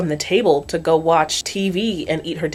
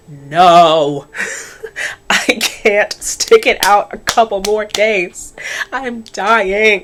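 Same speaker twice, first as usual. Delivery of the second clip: whiny refusal; 4 dB louder, much slower than usual. Retold or imitated. Angelica refusing, exhausted.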